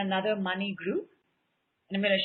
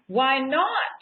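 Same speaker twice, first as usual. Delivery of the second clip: Why not? as a bold order, a bit louder, rising on not; commanding decree; 4 dB louder than usual. Shown as a demonstration. Speaker shows the group how to decree it, emphatic. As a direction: declare it like a command. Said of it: "you have to say it like that".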